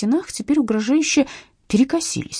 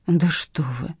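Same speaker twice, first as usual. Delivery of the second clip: ordinary delivery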